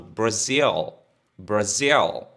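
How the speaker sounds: Brasil with a dark curled L at the end; English Brazil. Shown as a demonstration. Teacher shows the English L in Brasil. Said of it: "o L aqui é bem enrolado".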